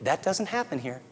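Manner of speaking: quiet, calm and controlled; calm firm statement. Pretend. Father setting a boundary for child, calm and quiet. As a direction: state the rule softly but firmly. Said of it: "very calmly, under control, say".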